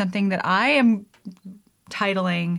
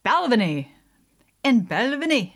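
Balvenie with a hammed-up Scottish lilt; badly faked Scottish accent on the name; attempted Scottish accent; 4 semitones higher, 4 dB louder than usual. Shown as a demonstration. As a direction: try saying it like a Scot, not quite landing it. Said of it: "Balvenie in a Scottish accent".

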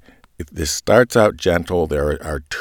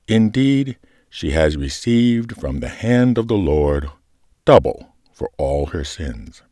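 gentle liturgical reading. Shown as a demonstration. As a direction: read it gently, letting comfort hang. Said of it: "Let me take a run at it here".

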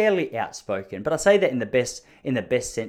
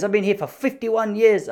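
high, loud, mock-offended old man; indignant stallholder; 7 semitones higher, 4 dB louder than usual. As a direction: puff up like an old man who's been insulted. Stallholder voiced again.

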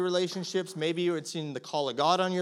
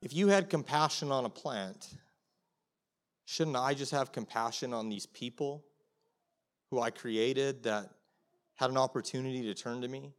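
soft voice of God; 4 semitones lower, 6 dB quieter than usual. Retold or imitated. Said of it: "he goes".

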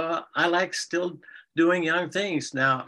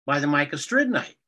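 playful fairy tale narration of spoonerisms; storytelling. Shown as a demonstration. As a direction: tell the fairy tale for the grandkids. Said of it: "tell her just a couple lines of Render".

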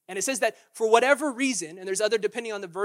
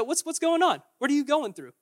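sarcastic; 5 semitones higher than usual. Acted. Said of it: "sarcastically said".

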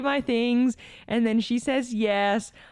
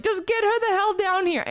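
exasperated order; 10 semitones higher than usual. Retold or imitated. Waiting in the rain, ordering Joelle to send her down, exasperated. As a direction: bark it down the phone, fed up.

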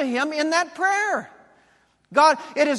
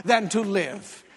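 hammed-up sulking plea to die; tantrum mode; 5 dB louder than usual. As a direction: throw a mock toddler tantrum. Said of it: "then he goes into tantrum mode".

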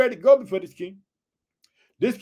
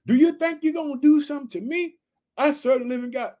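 defiant Elijah; 5 semitones higher than usual. Acted. Repeats Elijah's challenge again.

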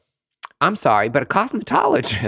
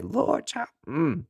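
sassy sigh; 5 semitones higher, 5 dB quieter, much slower than usual. Real, not acted. Sassy aside.

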